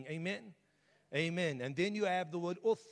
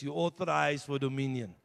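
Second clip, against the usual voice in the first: louder; 7 dB louder than usual. Shown as a demonstration. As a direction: say it louder to the room. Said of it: "you gotta say it louder".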